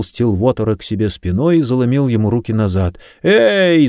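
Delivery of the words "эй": high-pitched, drawn-out yell; yelled protest. A narrator's reading. Suspect having his arms twisted back, high yell. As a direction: cry out in protest at rough handling. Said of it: "завопил тот".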